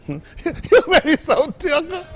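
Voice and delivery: mimicking a hooping preacher gasping for air; asthmatic preacher. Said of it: "a preacher that had asthma".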